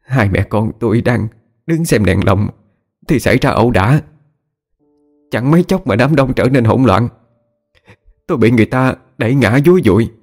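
distraught high-pitched account, climbing as it goes; acted weepy mother pouring out what happened; tearful. A narrator's reading. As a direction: report the loss in a rising, crying voice. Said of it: "cứ thế mà khóc lên nức nở".

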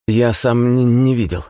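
high, frightened stutter; stammering boy. A narrator's reading. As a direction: stammer in fear. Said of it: "заикаясь".

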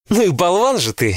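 high, fond, playful scold; playful affectionate jab. A narrator's reading. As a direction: tease him lovingly, pitch up. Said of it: "с чувством произнесла она".

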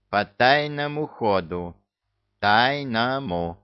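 "тайному" said slowly and stressed twice; repeating the key word. A narrator's reading. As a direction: hammer "тайному" slowly, syllable by syllable. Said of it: "Старательно выговаривая каждый слог".

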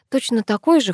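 ordinary delivery, nothing marked

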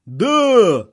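high, loud shout; emphatic high-pitched yell; yelled yes. A narrator's reading. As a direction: bellow it back as a crowd. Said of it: "заорали боевики".

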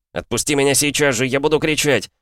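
high, desperate angry yell. A narrator's reading. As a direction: scream to be let go. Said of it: "заорал я". (отчаянный крик)

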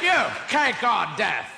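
slow booming shout. Retold or imitated. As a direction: boom it slowly and menacingly. Inquisitor demands choice.

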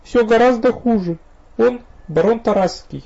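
high, loud near-hysterical voice. A narrator's reading. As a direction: let panic edge into the words. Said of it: "напоминавшую банальную истерику".

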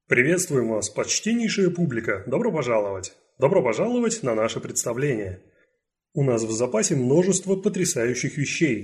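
showman announcing to the crowd; booming circus ringmaster. A narrator's reading. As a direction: present it like a ringmaster. Ringmaster addresses the audience.

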